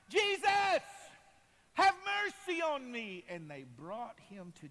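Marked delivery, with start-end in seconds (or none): 0.1-3.2 very high, loud shout; full-voice plea for mercy; desperate calling out. Acted. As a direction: holler past those hushing you. Blind man calls out over rebuke.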